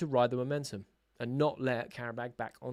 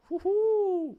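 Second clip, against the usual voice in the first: very high, loud whoop; joyful cheer; 6 dB louder than usual. Real, not acted. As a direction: whoop with delight at the save. Fan cheering a good save.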